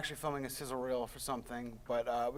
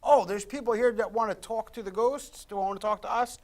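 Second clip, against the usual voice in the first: higher, slowed, intrigued discovery; eager spirit; 5 semitones higher than usual. Retold or imitated. Spirit hearing of people who want to talk, eager discovery. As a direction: voice a spirit perking up at visitors. Voices a spirit noticing the investigators.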